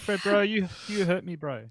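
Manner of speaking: mock New Zealand accent. Teasing the Kiwi guest, mock New Zealand accent. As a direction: play a wounded bro with a New Zealand accent. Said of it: "do a New Zealand accent".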